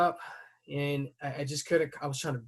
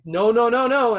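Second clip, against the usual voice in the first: high, loud urgent no no no; wife pleading; 9 semitones higher, 9 dB louder than usual. Retold or imitated. Wife begging him not to confront the driver, high and urgent. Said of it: "My wife is like".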